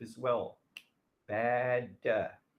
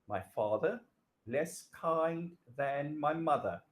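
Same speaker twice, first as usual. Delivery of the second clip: slow down and space out less kind; slow, careful reread. Shown as a demonstration. Teacher rereads the faulty sentence for students, slow and deliberate. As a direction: read it again slowly so students spot the error. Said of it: "What's the problem there?".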